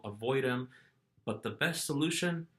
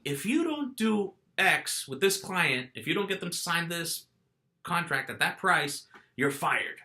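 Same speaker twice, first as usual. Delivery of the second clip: slow, higher mock-stern threat; retold boss threat; 5 semitones higher than usual. Salesman quotes his manager threatening to fire him, mild mock anger. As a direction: lay down the ultimatum, imitating. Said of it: "he told me".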